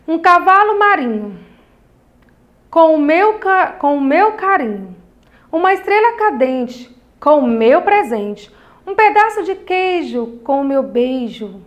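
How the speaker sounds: rhythmic, sing-song recital stressing each pair; poem reading with intonation. Shown as a demonstration. Reads rhyming poem aloud. (leitura rimada com entonação)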